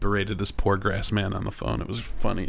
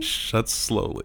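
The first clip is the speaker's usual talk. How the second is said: slowed down; much slower than usual. Pretend. Co-host describing a cat's leg dropping, drawn out. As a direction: stretch it out slowly. Mimicking the slow-falling leg.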